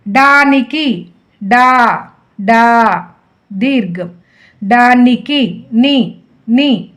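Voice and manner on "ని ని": ని held very slowly to expose its ఈ vowel; stretched syllable. Shown as a demonstration. Teacher sounding out a syllable for pupils, very slow. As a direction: draw out ని long and even. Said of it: "ఈ".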